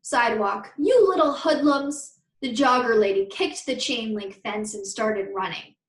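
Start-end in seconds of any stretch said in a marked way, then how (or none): 0.8-2.2 angry screech. Acted. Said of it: "A screech came from the sidewalk".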